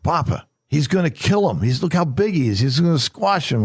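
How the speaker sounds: put-on high, worried child's voice; scared little boy. Grandpa voicing his scared grandson, high and worried. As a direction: voice the grandson fretting over Goliath.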